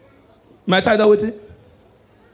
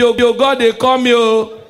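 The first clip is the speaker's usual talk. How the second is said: mock praying man; 4 semitones higher, slower than usual. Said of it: "so my joke, they be".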